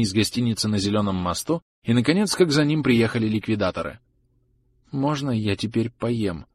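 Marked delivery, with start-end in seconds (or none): 4.9-6.5 slow, soft pleading. Acted. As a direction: beg for food, slowly and softly. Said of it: "спросил Саид умоляюще".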